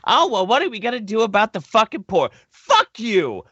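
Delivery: unhinged talk-show rant against the elite; Alex Jones rant. Pretend. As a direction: rail at them like a conspiracy radio host. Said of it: "Is he going Alex Jones on us?".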